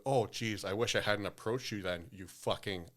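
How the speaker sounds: mock-apologetic, then blunt insult; sarcastic. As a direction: retell a sarcastic comeback, landing hard on the last word. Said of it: "I'm still a sarcastic prick".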